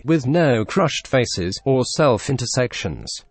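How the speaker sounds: synthetic computer voice; robot voice. Acted. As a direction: read it like a text-to-speech robot. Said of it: "use my captivating robotic voice".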